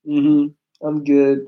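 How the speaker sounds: low, dull, lifeless greeting; bored flat delivery. Shown as a demonstration. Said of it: "I can't just sit there like".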